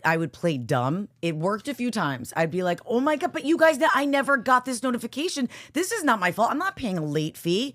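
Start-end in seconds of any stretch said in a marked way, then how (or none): 2.9-7.7 lightly high bimbo voice. Retold or imitated. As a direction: play dumb in a bimbo voice. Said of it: "Would you put on a bimbo voice?".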